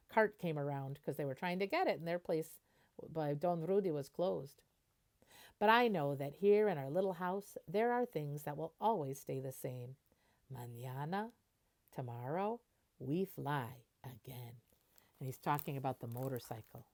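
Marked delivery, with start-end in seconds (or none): 5.6-14.6 gentle storybook reading voice; picture book narration. Acted. Teacher reading a picture book to the class, storybook voice. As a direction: read it like a bedtime story.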